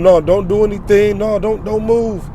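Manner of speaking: lightly voiced woman telling him to freeze; mimicking the woman. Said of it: "she was telling him".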